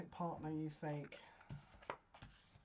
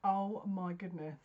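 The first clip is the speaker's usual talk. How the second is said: surprised gasp. Real, not acted. Shocked by the card drawn.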